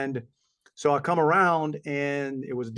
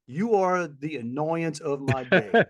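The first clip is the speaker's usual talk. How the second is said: mock bored clerk; slower than usual. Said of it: "they're talking to you like".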